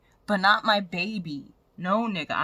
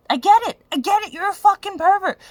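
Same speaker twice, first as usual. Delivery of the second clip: angry outburst; 11 semitones higher, 8 dB louder than usual. Real, not acted. Angry rant at ex.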